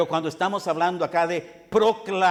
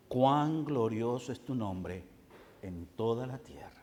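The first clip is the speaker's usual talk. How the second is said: reverent hush; 4 semitones lower, 6 dB quieter than usual. Acted. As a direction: let the words sink in quietly. Repeats psalm line softly, reverently. (susurro reverente y lento)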